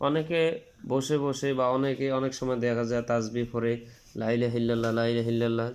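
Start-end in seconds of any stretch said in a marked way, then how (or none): 4.2-5.7 demonstrating the wrong way, লা clipped short. Shown as a demonstration. Teacher showing students a wrong quick tasbih, লা short. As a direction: rattle off লা ইলাহা ইল্লাল্লাহ with লা short and unstretched, as a careless tasbih. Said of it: "যদি এইভাবে কেউ তাসবিহ আদায় করে".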